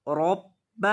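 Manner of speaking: रब्ब with the ब्ब pressed hard and held; hard doubled ba. Shown as a demonstration. Teacher stressing the doubled ba, firm and deliberate. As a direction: lean firmly on the doubled ब in रब्ब. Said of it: "बा को सख्ती के साथ पढ़ेंगे".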